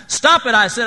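loud, high, urgent cry; mock scream of a dizzy teacup; screamed protest. A narrator's reading. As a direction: shout it out in alarm, high and hard. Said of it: "I screamed".

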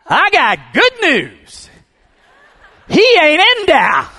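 loud, slow, high joyful shout; shouted at the top of his lungs. Retold or imitated. Man calling out from the empty tomb, joyful shout. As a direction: bellow the good news out of the tomb. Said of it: "at the top of his lungs".

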